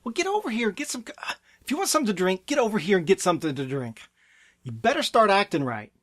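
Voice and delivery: curt, demeaning telling-off; derogatory parent. Acted. Parent ordering a child at a restaurant drink station, derogatory. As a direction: order a child about in a rough, not nice tone. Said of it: "The tone was derogatory".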